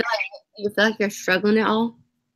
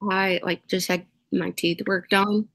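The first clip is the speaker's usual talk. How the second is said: gauze in mouth. Real, not acted. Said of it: "that's why I sound so weird".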